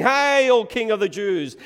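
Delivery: loud, high hail; ringing shout of royal praise; acclaiming a king. Acted. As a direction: cry it out in mock homage. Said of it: "praise him as the king".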